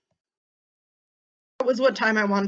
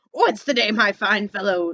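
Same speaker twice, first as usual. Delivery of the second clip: Scrooge calling down; 4 dB louder than usual. Acted. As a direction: hail the boy warmly from above. Scrooge calls to boy.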